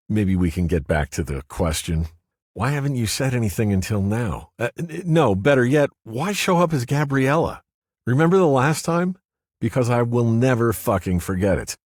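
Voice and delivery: man's voice straining with hurt; Paul, exasperated. A narrator's reading. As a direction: demand an answer, rising frustration.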